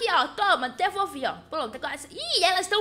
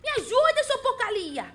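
panicked cry for help; 5 semitones higher, 3 dB louder than usual. Real, not acted. Attacked in game, calling out.

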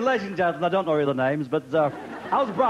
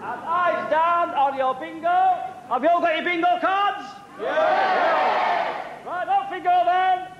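bingo caller; 4 semitones higher than usual. Acted. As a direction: sing out the numbers to a hall of players. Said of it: "bingo caller this evening".

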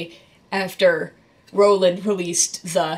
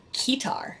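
whispered aside; 4 semitones higher, 6 dB quieter than usual. Real, not acted. Dry aside after keytar rant.

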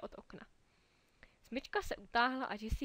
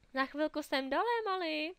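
louder, higher call downstairs; 5 semitones higher, 6 dB louder than usual. A narrator's reading. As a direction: call down to the little sister. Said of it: "zvolala paní na Andyho mladší sestru". (chůva volá na Molly dolů, hlasitě a výš)

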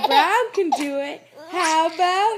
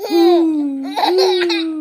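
owl hoot; 9 dB louder than usual. Acted. Reading to a child, hooting like an owl. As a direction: call like an owl. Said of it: "let's review".

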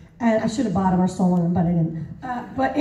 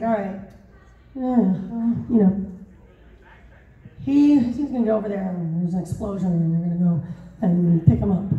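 mumbled, halting stage directions, lightly imitated; mock a director mumbling instructions; Michael Bay mumbling; 4 semitones lower than usual. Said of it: "he mumbles everything".

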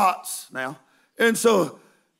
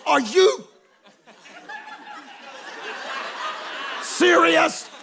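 incredulous cry; 7 semitones higher, slower than usual. Retold or imitated. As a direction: shout it in amazed disbelief. Disbelief at bucking passenger.

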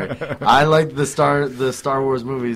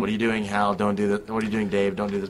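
lightly voiced creepy computer; a hint of a calm eerie computer; HAL voice; 3 semitones lower, 4 dB quieter than usual. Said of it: "that creepy voice".

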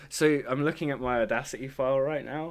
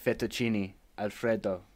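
mock Italian accent. Playing an Italian, food words.

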